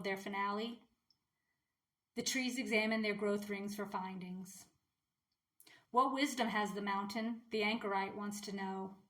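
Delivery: measured, even poetry recital; poem reading. Real, not acted. Vlogger reading a strange poem to viewers, measured recital. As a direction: read it as verse, pausing between lines.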